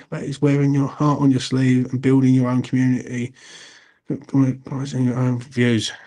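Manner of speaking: slightly slurred speech; words running together, slurred; slurring words. Real, not acted. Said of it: "slurring me word for some reason".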